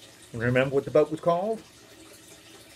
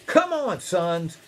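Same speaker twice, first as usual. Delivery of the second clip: calling out; slower than usual. Acted. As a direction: holler for the family to come. Noah calls his sons over.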